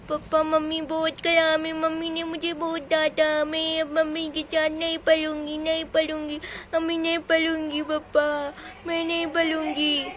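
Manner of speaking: small girl complaining to papa, lightly acted whine; lightly voiced tearful child. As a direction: plead like a little child refusing to study. (रुआँसी बच्ची की हल्की नकल)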